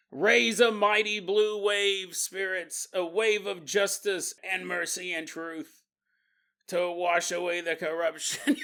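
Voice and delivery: hammed-up ritual chant, lightly voiced; mock witch incantation. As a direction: intone it like a spell over candles. Witches chanting from other room.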